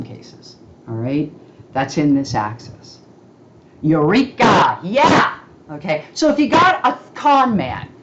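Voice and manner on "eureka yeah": excited exclamation. Real, not acted. Excited discovery in chart.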